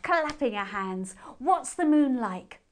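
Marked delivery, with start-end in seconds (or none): 1.4-2.6 put-on eager child. A narrator's reading.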